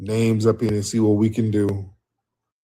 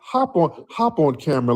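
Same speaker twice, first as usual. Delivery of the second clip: excited call; 4 semitones higher than usual. Real, not acted. Host urging caller onto camera.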